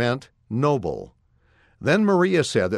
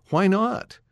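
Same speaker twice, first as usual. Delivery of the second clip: surprised; 8 semitones higher than usual. A narrator's reading. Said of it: "Dad looked surprised".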